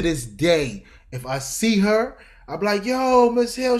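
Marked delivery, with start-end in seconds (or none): 2.8-3.8 high loud cheerful hail; excited greeting. Retold or imitated. Greeting his old boss, high and loud. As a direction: call out happily, way up high.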